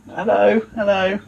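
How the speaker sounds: high playful hello hello; high sing-song hello. Pretend. Sing-song greeting to water.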